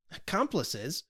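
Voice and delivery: a startled echo of the word; McVey echoing the accusation, surprised; surprised exclamation. Acted. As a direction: throw it back in disbelief. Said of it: "exclaimed McVey".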